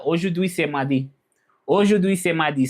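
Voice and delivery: "Aujourd'hui" as oh-zhoor-dwee; French pronunciation. Shown as a demonstration. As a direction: demonstrate French aujourd'hui, c'est mardi. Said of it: "So that's how you say".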